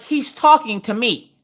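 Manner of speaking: slow, deliberate, confronting; pointed slow challenge. Retold or imitated. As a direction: lay each word down slowly at the teacher. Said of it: "I'm like".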